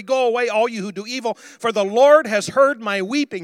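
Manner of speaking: loud, high triumphant command; ringing, authoritative declaration; taking authority. Acted. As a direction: preach the verse as a bold order. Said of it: "He's taken authority".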